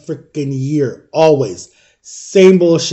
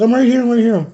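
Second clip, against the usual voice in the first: higher-pitched motherly comforting; reassuring mom; 7 semitones higher than usual. Retold or imitated. Mom answering her crying child, lightly imitated reassurance. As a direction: soothe as a mother would, pitched up.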